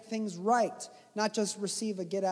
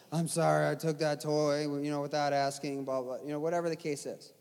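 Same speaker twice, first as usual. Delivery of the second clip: put-on mumbling child; 6 semitones lower than usual. Child's rote apology.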